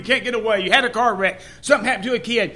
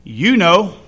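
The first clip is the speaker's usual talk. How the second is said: smug parrot punchline; 7 dB louder than usual. Retold or imitated. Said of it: "That parrot looked right back and said".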